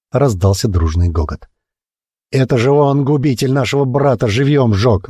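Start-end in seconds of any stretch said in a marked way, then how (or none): 2.3-5.1 higher, angry accusing call; a worker accusing the steward to the crowd, shouting. Acted. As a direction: denounce him to the crowd. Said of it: "закричал другой голос".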